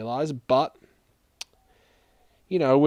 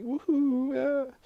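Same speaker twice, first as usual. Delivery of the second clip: excited; 14 semitones higher, much slower than usual. Real, not acted. Cheering about spent money.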